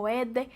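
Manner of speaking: "verde" with the R swallowed; unintelligible Cuban pronunciation. Shown as a demonstration. Contrasting clear Mexican articulation, "verde" without its R. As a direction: say "verde" as "vedde". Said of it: "No es como verde".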